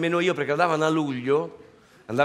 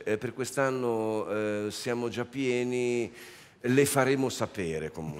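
imitating Giancarlo Bozzo; 3 dB quieter, slower than usual. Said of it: "con questa voce".

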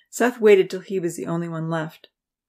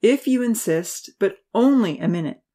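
grudging groan; 4 semitones higher, 5 dB louder than usual. Acted. Professor grudgingly agreeing to hear the student out. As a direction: give in with a weary sigh. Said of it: "The professor groaned".

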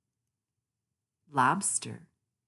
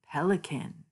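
whisper. Acted. Storyteller whispers the pelican's name to children. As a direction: whisper it like a secret. Reading animal names, whispered.

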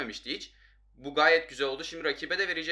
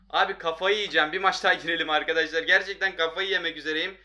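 exasperated gamer outburst; 5 dB louder than usual. Real, not acted. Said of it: "Sinirim bozuldu".

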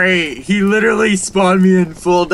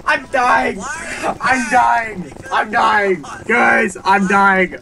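high, breathless giggly repeats; laughing; 7 semitones higher, slower than usual. Real, not acted. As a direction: overcome with laughter. Cracking up after winning.

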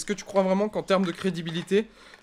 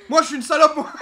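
camp drag queen voice; 9 semitones higher, 9 dB louder than usual. Pretend.

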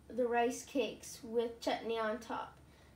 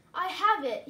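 higher, louder eureka; king struck by a sudden idea; excited idea; 5 semitones higher, 7 dB louder than usual. A narrator's reading. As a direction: announce the brainwave brightly. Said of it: "he said".

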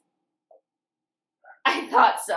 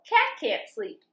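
Cat said much higher; higher refrain; 11 semitones higher, slower than usual. A narrator's reading. Reading to kids, refrain repeated in a much higher voice. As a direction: lift the whole line up high.

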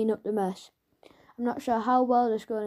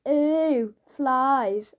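mock disgust; 2 semitones higher, 6 dB louder than usual. Tom teasing Marcus about the raisins, loud mock disgust. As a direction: pull a loud disgusted face. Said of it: "just to make the point".

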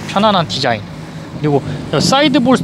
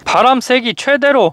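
slow, higher, carefully spaced words; very slow command; 7 semitones higher, slower than usual. Shown as a demonstration. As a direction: spell it out slowly for the machine. Voice command to car.

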